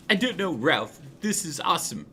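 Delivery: high, loud little mouse voice; thrilled tiny fan at the fight; excited Ralphie. Acted.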